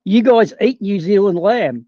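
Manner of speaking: said again slowly and deliberately; slow it down so they catch it. Shown as a demonstration. Repeating the line slowly when asked to go again. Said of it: "Go again?".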